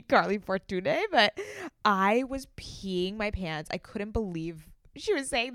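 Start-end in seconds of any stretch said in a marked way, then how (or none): 0.0-0.9 Fortune said as "for-too-NAY"; accented final E. Retold or imitated. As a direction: give Fortune an "ay" ending. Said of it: "I don't see a accent at the".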